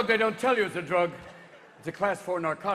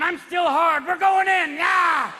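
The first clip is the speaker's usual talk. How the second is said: loud, high battle-ready bravado; cocky penis character; 9 semitones higher, 8 dB louder, slower than usual. Acted. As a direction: order the charge, gung-ho. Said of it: "the penis is going".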